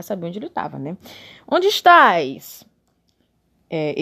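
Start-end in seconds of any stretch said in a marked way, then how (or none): 1.5-2.6 very slow, high and loud; slow drawn-out God voice. Acted. Mocking God again for Adam, drawn out slowly. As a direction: stretch each word like a sly God. God's question repeated mockingly.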